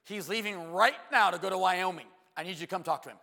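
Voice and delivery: put-on urgent old lady. Ann calling the pastor about her nephew, loud urgent plea. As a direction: plead urgently down the phone. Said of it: "She called the church".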